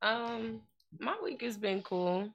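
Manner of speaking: quiet, mic held too far; moving handheld mic. Real, not acted. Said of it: "bring the mic closer to your mouth".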